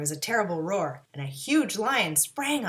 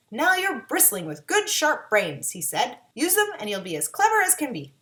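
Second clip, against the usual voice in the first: proud wizard; 4 semitones higher, 6 dB louder than usual. A narrator's reading. Wizard gives brains.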